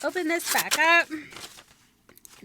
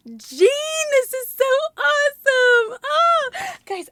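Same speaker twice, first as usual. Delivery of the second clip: high, loud cry of delight; much higher, louder happy outburst; thrilled shout; 12 semitones higher, 7 dB louder, slower than usual. Real, not acted. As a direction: call out to Jean, overjoyed. Thrilled by friend's gift.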